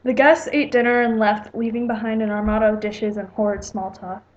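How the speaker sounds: lightly measured read-aloud narration; story narration. A narrator's reading. Writer reading own story to viewers, plain storytelling narration.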